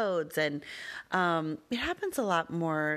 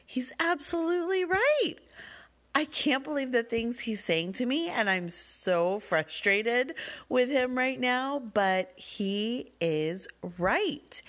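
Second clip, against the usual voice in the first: higher, slower, stunned realization; amazed inner voice; 8 semitones higher than usual. Retold or imitated. Mother realizing her son is right, stunned and high. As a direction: let the realization hit hard. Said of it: "all I could think to myself was".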